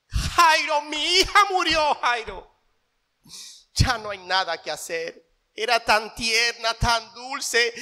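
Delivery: a hint of a mother's wail; grieving wife. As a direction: plead to Jairo over a lost daughter, fading. Wife wails to Jairo.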